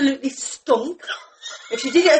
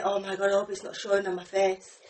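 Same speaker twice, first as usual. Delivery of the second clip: hushed and lower, thinking to herself; quiet inner voice; 8 semitones lower, 11 dB quieter than usual. Retold or imitated. Worrying at work that it shows, hushed inner voice. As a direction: lower and softer, like thinking aloud. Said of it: "I think".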